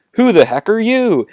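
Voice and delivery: loud, high-pitched incredulous question; baffled challenge. Acted. Han turns back to Yoda, loudly incredulous. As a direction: demand to know, voice pushed up.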